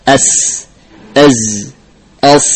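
"As, az, as" each held on a sharp sibilant; whistling sibilants. Shown as a demonstration. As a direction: hold the hissing ends of "As, az, as". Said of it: "khusus, suara khas". ("As, az, as" dengan desis sofir)

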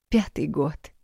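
plain reading voice

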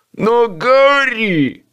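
slow, insistent protest. A narrator's reading. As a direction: refuse to give up, drawn out. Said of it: "не сдавался он".

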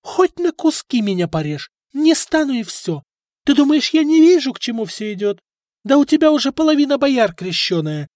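high, loud frenzied defiance; wife in a frenzy against husband. A narrator's reading. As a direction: spit it out in a frenzy. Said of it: "войдя в какое-то исступление".

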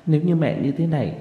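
tearful plea. Acted. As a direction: gently beg your mother through tears. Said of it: "Tôi nói trong nước mắt". (nói trong nước mắt, nhẹ nhàng)

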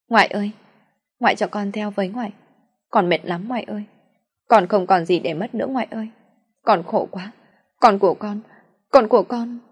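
pleading through tears, rising to a wail; desperate tearful plea. Acted. Lành khóc van xin bà. (giọng nghẹn ngào van xin, càng lúc càng to)

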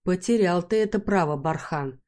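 чуть насмешливо, с ехидцей; поддень его; с издёвкой. Acted. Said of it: "с издёвкой в голосе". (героиня дразнит Бархана: с издёвкой)

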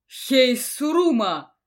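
loud, slow command; barked order. A narrator's reading. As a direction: bark the order to the patrol. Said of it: "отдал приказ командир".

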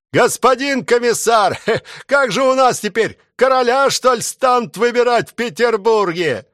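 high, calling soldier voice from the crowd. A narrator's reading. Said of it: "Из толпы начали кричать". (выкрик солдата из толпы, высоко)

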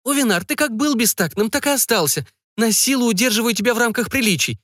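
a wife needling her tactless husband, voiced high; high-pitched mother. A narrator's reading. Wife chiding her husband, high-pitched role voice.

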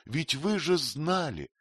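a high, reproachful lilt. A narrator's reading. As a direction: chide him gently. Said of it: "почти с упрёком проговорила она". (с упрёком, высоко)

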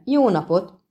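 a booming hello on entering; ringing greeting. Acted. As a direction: call it out to the whole inn. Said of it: "Harsant fel".

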